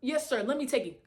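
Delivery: laughing through a mock-courteous offer; laughing polite helper. Mimicking her new polite self to deliverers, laughing. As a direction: chuckle while playing the extra-helpful receptionist. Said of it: "Attitude fixed up real quick".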